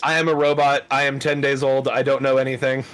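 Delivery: robot voice. Pretend. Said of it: "How do I robot?".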